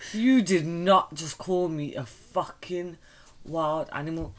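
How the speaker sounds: slow, drawn-out mock offence; indignant. Real, not acted. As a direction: spell out the outrage word by word. Indignant at being insulted.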